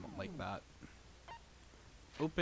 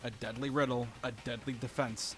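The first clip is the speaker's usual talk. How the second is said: dramatic trailer narration. Acted. Dramatic game trailer read.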